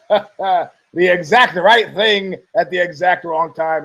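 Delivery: laughing through the words; quoted line said through a laugh. Retold or imitated. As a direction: chuckle while saying it. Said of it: "I go".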